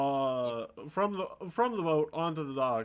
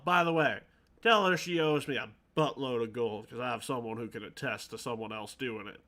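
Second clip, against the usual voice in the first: lightly gravelly shopkeeper with a southern-sounding twang; gravelly-voiced game character. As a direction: put some gravel in the voice, exasperated. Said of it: "trying to have a gravelly voice".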